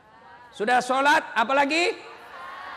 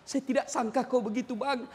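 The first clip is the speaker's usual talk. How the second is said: softer, hushed reproach; soft hurt complaint; 6 dB quieter than usual. Acted. Wife softly reproaching her husband before praying, quiet. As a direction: say it gently, wounded. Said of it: "marah sambil berdoa".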